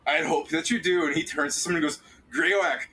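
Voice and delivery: a hint of proud dwarf lecturing; gruff dwarf warrior. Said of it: "he goes".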